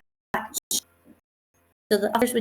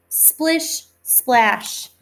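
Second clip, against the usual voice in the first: splashing rain words; 2 semitones higher than usual. Shown as a demonstration. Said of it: "rain is starting to fall harder".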